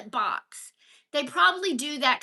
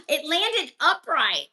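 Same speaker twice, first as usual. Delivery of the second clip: surprised gasp; 2 semitones higher, slower than usual. Real, not acted. Lid landing surprise.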